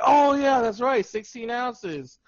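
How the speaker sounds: high, loud "oh" easing into drawn-out words; exaggerated aha reaction; mock sudden realization. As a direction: act out it dawning on you. Acts out sudden realization after hint.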